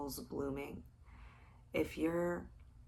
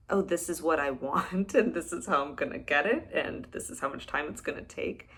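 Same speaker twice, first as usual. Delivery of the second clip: lightly acted, louder, brisk rattling-off; mock eager planner; 6 dB louder, faster than usual. Host mimicking a literal planner for listeners, mock-eager and brisk. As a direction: imitate someone briskly mapping out a goal.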